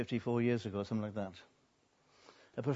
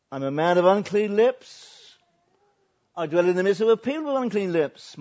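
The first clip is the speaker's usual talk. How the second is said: loud, higher confession; anguished confession; 7 semitones higher, 11 dB louder than usual. Acted. Isaiah confessing his unclean lips, loud and anguished. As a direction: cry out your guilt. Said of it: "Then I said".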